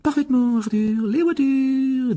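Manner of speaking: high, slow, drawn-out indignation; furious wife. Acted. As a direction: confront the guilty husband in a high voice. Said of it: "les yeux flamboyants". (épouse furieuse, voix haut perchée)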